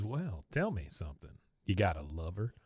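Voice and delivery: low, lightly drawled come-on; mild mock smooth talker; imitated McConaughey voice. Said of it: "just about anything in that voice".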